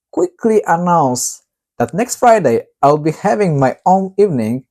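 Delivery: ordinary delivery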